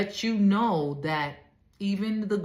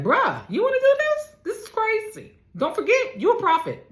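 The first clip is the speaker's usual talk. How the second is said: high, loud nagging inner voice; the panicked mind talking him out of it; voice of his anxious mind; 13 semitones higher, 4 dB louder than usual. Acted. Preacher voices Jesus's own mind warning him, high and loud. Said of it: "That mind is like".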